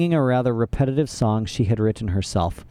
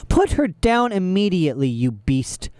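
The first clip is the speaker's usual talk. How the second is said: higher, urgent shout; 6 semitones higher than usual. A narrator's reading. Klaus defending Sunny from Olaf, urgent shout. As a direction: yell to save his sister. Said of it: "Klaus shouted".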